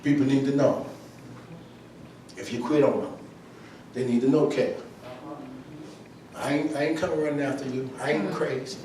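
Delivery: quiet low preaching. Acted. Preacher speaking softly to the room about quitters. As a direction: pull them in close, speak it low.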